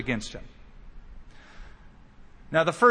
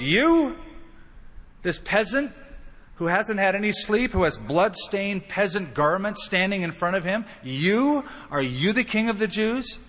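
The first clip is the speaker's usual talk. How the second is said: condescending Pilate; 3 semitones higher than usual. Acted. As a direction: look down on him as you ask. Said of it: "that kind of condescending way".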